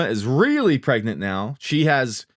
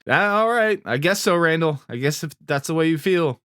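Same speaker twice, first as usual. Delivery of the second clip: mock-resigned, pitched higher than usual; hopeless resignation; 5 semitones higher than usual. Recapper voicing a hopeless man giving in to Randall, resigned. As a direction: give in with a higher-pitched, lightly acted sigh of words. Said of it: "He's kinda hopeless".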